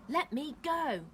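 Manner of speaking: high, loud, drawn-out cry; struggling demand. A narrator's reading. Captive kicking at captors, loud demand. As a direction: cry out to be released.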